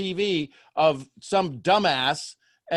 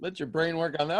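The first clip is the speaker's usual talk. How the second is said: ordinary talk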